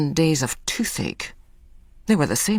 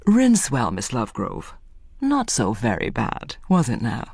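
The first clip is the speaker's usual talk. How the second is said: gentle dentist; 5 semitones lower than usual. Acted. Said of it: "The dentist's voice was gentle".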